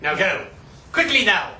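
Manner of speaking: lightly voiced judge giving orders; acted judge. Judge sending the court off for a Facebook recess, lightly acted. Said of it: "The judge said".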